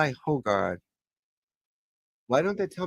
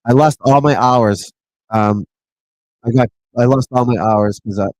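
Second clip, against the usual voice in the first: angry rant; 12 dB louder than usual. Real, not acted. Ranting about losing watch hours.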